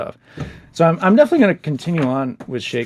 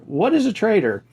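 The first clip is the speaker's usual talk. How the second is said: higher, lightly voiced little boy; child's voice; 8 semitones higher than usual. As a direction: ask it like a curious kid. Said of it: "So the son says".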